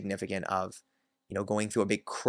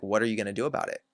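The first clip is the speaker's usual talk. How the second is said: defiant challenge; much faster than usual. Retold or imitated. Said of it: "putting up the energy of".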